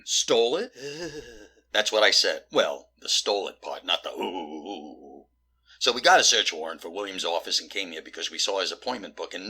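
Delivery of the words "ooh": long, low, soft ooh; mimicked ooh. Detective quoting back the other reaction, mimicking ooh. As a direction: draw out a quiet ooh. Repeating the ooh someone made.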